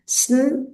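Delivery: isolated "स्न" onset sound, held apart; teacher sounding out "स्न" for children. Shown as a demonstration. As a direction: sound out "स्न" on its own, slowly. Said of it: "जैसे स्नीक में तीन हिस्से हैं".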